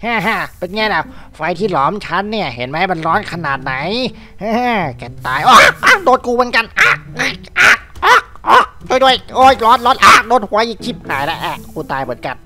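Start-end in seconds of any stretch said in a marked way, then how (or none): 4.4-11.4 mock panic. Burnt by own fire.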